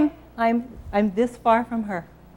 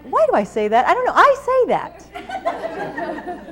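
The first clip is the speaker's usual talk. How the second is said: 자기를 놀리듯 웃으며 높게 끌어서; high, slow and laughing at herself; self-mocking laughter; 12 semitones higher, slower than usual. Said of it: "I'm like".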